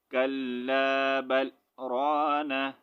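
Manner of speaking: slow, drawn-out reading without a breath break; in one breath. Shown as a demonstration. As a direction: stretch the words out slowly in one breath. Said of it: "सांस तोड़ने के बगैर हमने पढ़ना है".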